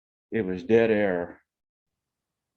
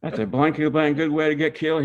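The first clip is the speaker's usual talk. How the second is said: mock angry cussing; 6 semitones higher, faster than usual.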